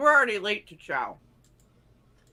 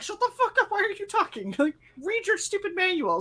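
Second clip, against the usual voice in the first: mock angry snap; 9 semitones higher, faster than usual. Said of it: "I was like".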